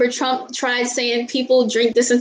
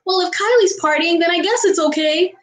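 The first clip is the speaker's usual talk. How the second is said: pitched up, airheaded mock quote of a fan; mock follower voice; 5 semitones higher than usual. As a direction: play a naive fan excusing the party. Mocking influencer followers' reasoning.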